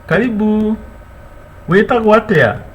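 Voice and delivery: "Karibu. Wetagwo atia?" high and bright; welcoming a visitor and asking their name; welcoming question. Shown as a demonstration. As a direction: call it out to the guest. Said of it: "you tell the visitor".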